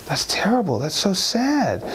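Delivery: high, drawn-out pity; mildly acted sorrow; dismayed sympathy. Maya pities the blinded actor.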